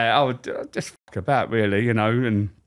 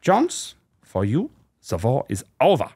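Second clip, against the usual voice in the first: mock German officer. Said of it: "walk around with a clipboard and a limp".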